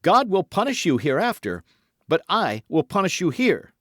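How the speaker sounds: high, loud, fervent denunciation; mounting excitement. A narrator's reading. Felton denounces the Duke's iniquities, increasingly excited. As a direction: thunder the warning with rising agitation. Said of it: "becoming more excited as he spoke".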